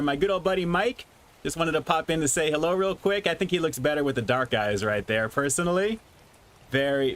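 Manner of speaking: muffled through a rubber mask; talking from inside a mask. Real, not acted. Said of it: "it gets so hot in this mask".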